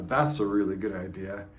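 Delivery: That's a really good idea, low and dry; words and tone don't match; sarcastic. Shown as a demonstration. Coach demoing incongruent tone, sarcastic. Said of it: "That's incongruent".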